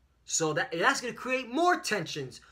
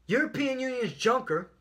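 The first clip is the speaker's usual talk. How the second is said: higher-pitched headline read with life; lively reading; 6 semitones higher than usual. Real, not acted. Preacher opening a news article for his listeners, lively reading. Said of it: "read this with some life in it".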